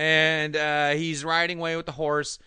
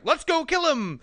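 high, loud battle cry; hammed-up villain's command; mock rallying yell; 14 semitones higher, 6 dB louder than usual. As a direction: shout it to rouse the henchmen. Voices villain rallying his henchmen.

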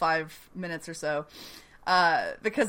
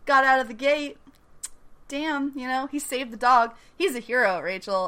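mock Southern charm; 4 semitones higher, 3 dB louder than usual. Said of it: "this fake little Southern accent".

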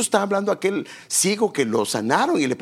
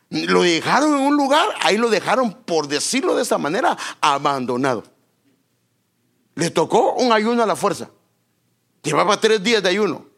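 preaching emphasis; 4 dB louder than usual. Real, not acted.

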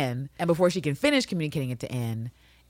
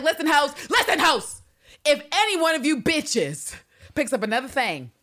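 threatening; 10 semitones higher than usual. Retold or imitated. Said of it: "And she's like".

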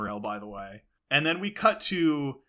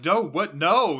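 mock protest, higher and louder; alarmed protest; 4 semitones higher, 5 dB louder than usual. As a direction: balk as if being dragged off. Acted protest while being dragged.

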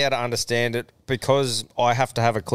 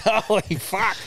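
stunned; 10 semitones higher than usual. Retold or imitated. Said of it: "and it's like".

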